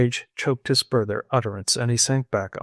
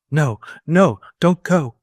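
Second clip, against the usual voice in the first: high, loud pleading no, no; piteous cry; 5 semitones higher, 7 dB louder than usual. A narrator's reading. Old squire begs the girl not to leave, piteous cry. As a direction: beg her not to leave, pitifully. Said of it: "he cried in piteous tones".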